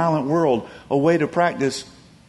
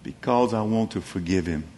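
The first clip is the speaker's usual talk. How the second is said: quiet confession; 5 semitones lower, 6 dB quieter than usual. Retold or imitated. Widow's quiet answer.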